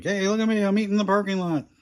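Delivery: high mock voice of a show-off YouTuber; mocking influencer. Vlogger mocks influencers eating in parking lots, high mocking voice. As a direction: lampoon a look-at-me influencer in a high voice.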